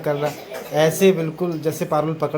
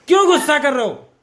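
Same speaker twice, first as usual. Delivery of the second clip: high cooing question; 7 semitones higher, 4 dB louder, faster than usual. Real, not acted. Asks toddler why he's cross. (बच्चे से ऊँची, लाड़ भरी आवाज़ में पूछो)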